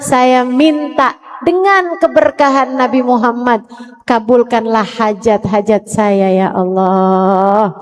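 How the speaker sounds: heartfelt supplication to Allah; prayer demo. Shown as a demonstration. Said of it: "sambil berkata".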